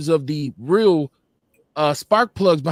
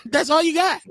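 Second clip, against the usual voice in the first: laughing taunt; 8 semitones higher than usual. Real, not acted. Laughing off the insult.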